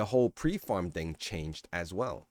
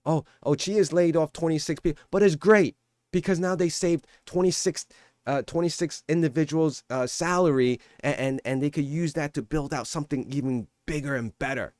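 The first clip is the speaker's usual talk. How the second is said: sarcastic, higher, upbeat parody; mock cheerful spin; 5 semitones higher than usual. Mocking the commenters with a fake-upbeat spin on layoffs. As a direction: make the layoffs sound like good news, mocking. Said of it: "what do you want me to say".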